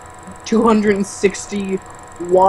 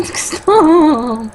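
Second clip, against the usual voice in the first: laughing protest; 7 semitones higher, 3 dB louder than usual. Real, not acted. Laughing at co-host's heckles.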